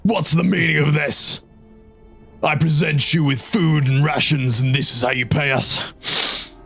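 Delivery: stern officer barking orders; commissar voice. Acted. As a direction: play an outraged commissar. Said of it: "commissar voice".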